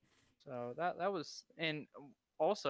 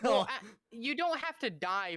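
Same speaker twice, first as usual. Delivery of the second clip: talking through a laugh; 9 semitones higher, 6 dB louder than usual. Real, not acted. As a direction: laugh while you say it. Laughing while answering.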